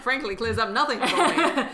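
laughing while talking. Real, not acted. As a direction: chuckle through the words. Laughing at a baffling quote.

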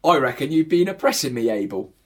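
mild put-on Cockney voice; Cockney accent. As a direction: play it as a Cockney geezer. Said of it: "Cockney accents for this".

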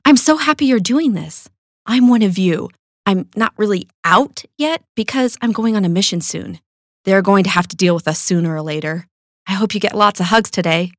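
eager happy gush; enthusiastic. Retold or imitated. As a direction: gush it out like a thrilled new friend. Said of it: "enthusiastically tells me".

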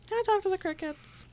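high, pitiful little plea; plaintive. Pretend. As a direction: ask sweetly like a sad child. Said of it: "Did I sound so pitiful".

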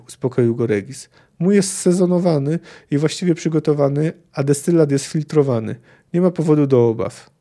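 reading a novel aloud with lightly voiced characters; story narration. A narrator's reading. Lecturer reading a Witcher passage to the class, story narration. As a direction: tell the tavern scene like a storyteller.

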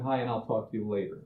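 soft, quick, dismissive; offhand brush-off. Retold or imitated. Coworker brushing off the friend, soft and quick. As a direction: toss it off without looking up.

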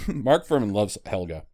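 eating pizza while talking; mouth full. Real, not acted. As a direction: talk through a mouthful of pizza. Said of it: "Sorry, I'm eating pizza at the same time".

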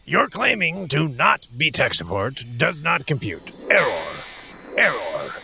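robotic voice stuck repeating error; malfunctioning AI glitching out. Acted. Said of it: "glitchy muscle jerk that's going on here".

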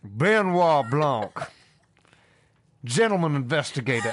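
slow, drawn-out Southern drawl; Benoit Blanc Southern drawl. Acted. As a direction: stretch it out like a Southern gentleman sleuth. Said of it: "I've been doing the voice".

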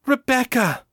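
forcing one thought through; Ava's forceful inner shout; forceful cry. A narrator's reading. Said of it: "one forceful, coherent thought".

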